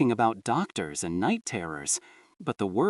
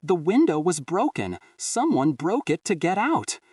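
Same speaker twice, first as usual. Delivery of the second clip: voice cracking; 6 semitones higher than usual. Acted. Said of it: "my voice cracking".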